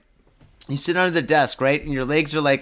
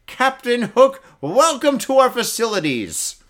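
higher, louder mock welcome of a jailer; mock prison greeting; 8 semitones higher, 4 dB louder than usual. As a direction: greet the new inmate with fake ceremony. Imagined prison greeting to suspect.

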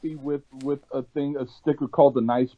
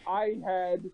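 far from mic; 2 semitones higher than usual. Real, not acted. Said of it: "You're back to being muddy again".

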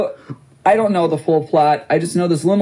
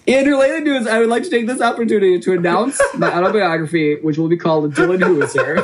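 laughing; 3 semitones higher than usual. Real, not acted. Mock announcement while laughing.

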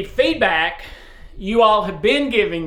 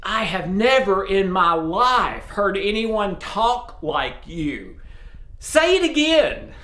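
put-on delighted old lady; slower than usual. Sweet lady begging the teen to repeat it, delighted. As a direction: beg him to say it again. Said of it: "the dear, sweet lady said".

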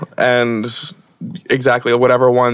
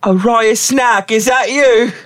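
surprised character voice; 9 semitones higher, slower than usual. Acted. PC greets old friend.

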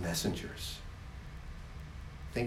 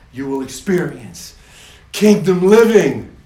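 building proclamation; 7 dB louder than usual. Acted. God's message voiced, building.

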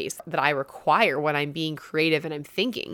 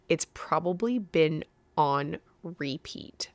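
whisper; 5 dB quieter, slower than usual. Real, not acted. Whispered aside to viewer.

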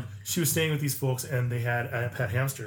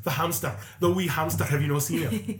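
put-on light Scottish accent; 3 semitones higher than usual. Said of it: "You're like".

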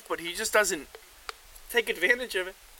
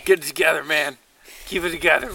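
loud; 3 semitones lower, 5 dB louder than usual. Real, not acted. Loudly scolding a drunk friend.

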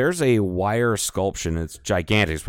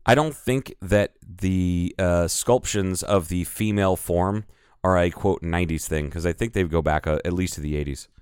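sarcastic; 2 semitones lower than usual. Real, not acted. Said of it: "You caught my sarcasm there".

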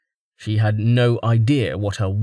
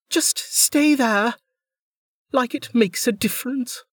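gruff Velika; 14 semitones higher than usual. A narrator's reading. Velika telling the pushy woman to stay, grudging. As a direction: dismiss her, clipped and sour. Velika voiced high, slow.

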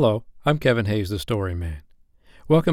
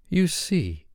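high, self-satisfied voice; complacent; 9 semitones higher than usual. A narrator's reading. Wendy continuing after the boys' squabble, complacent. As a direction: say it smugly. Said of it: "Wendy said complacently".

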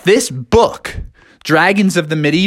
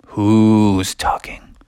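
stern teacher; 7 semitones lower, much slower than usual. Retold or imitated. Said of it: "And teacher was like".

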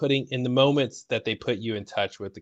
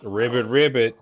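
Sawyer voice. Acted. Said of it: "That was Sawyer".

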